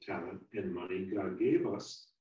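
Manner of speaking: calm, earnest moral lesson; sermon. Real, not acted. Preacher drawing the moral for the congregation, sincere. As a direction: bring the story home to the listeners.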